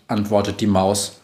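ordinary delivery, nothing marked

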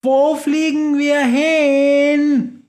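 high, slow, drawn-out yell; shouting. Acted. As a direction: keep yelling over the storm noise. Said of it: "schreit weiter".

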